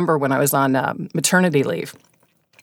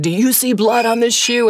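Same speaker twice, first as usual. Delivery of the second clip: stalker; 7 semitones higher than usual. Retold or imitated.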